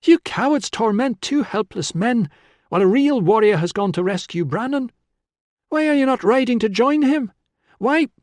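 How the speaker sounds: high, loud tirade; shouted challenge. A narrator's reading. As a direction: berate them at a shout, rising until cut off. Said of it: "Tilla shouted from the shadows".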